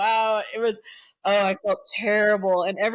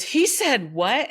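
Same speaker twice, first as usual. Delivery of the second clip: mock shock; 5 semitones higher, 4 dB louder, slower than usual. Mom reacts in shock.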